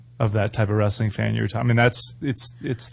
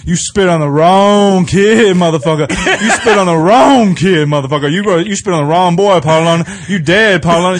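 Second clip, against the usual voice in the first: furious redneck threat; 5 semitones higher, 7 dB louder than usual. Retold or imitated. Trucker dad threatening the wrestler over his kid, loud furious yell. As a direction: bellow a threat like an angry trucker defending a kid. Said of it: "He's like".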